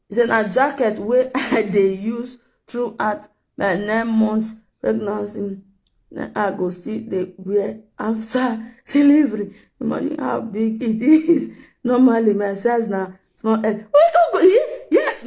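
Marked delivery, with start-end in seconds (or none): 0.3-13.7 laughing quote. Retold or imitated. 13.7-15.3 high squealing laugh over the words; can't stop laughing at the quote. Real, not acted. Laughing hard at the pregnancy jacket story.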